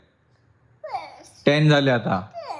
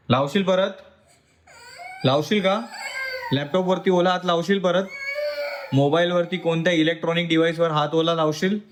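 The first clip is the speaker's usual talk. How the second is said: raised pitch, rising scolding questions; stern questioning; 4 semitones higher than usual. Real, not acted. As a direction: press each question upward, sternly. Father scolding child over wet hands.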